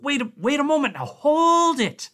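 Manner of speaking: high, pleading rush; frantic scientist. A narrator's reading. Blair urgently explaining to Connacht, frantic and high. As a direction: explain desperately before they act.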